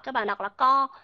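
"co" said like Vietnamese co, too closed; mock the closed co for car; wrong co. Shown as a demonstration. Teacher showing the wrong way to say car. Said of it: "thì nó lại là sai".

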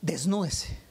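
orden susurrada de maestra enojada; susúrralo como una orden tajante; susurro seco. Retold or imitated. (la maestra ordena al niño, en susurro)

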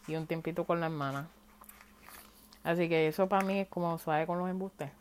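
talking while chewing raisins; words round a mouthful; mouth full. Real, not acted. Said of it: "yo estoy comiendo pasa".

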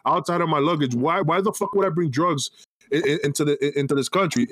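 half-acted disbelief, what the hell; retold exasperated outburst.

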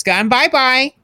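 sing-song bye-bye, up high; baby talk, high pitch. Acted. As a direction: coo it like to a toddler.

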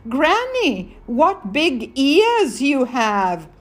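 high "Granny", slow wondering question; a hint of a curious child, drawn out; little girl. Girl questions the disguised wolf.

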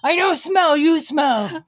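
loud growling monster Santa; zombie Santa voice. Pretend. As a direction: snap back like a zombie. Zombie Santa snapping at kids.

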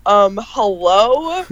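slow, drawn-out questioning hello; puzzled hello. Retold or imitated. Retelling her work habit, slow questioning hello. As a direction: ask the object what it's doing. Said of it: "I go".

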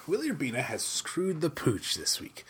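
whispered aside to the listeners; conspiratorial whisper. Real, not acted. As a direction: lean in and whisper it like gossip. Aside about a fired commentator.

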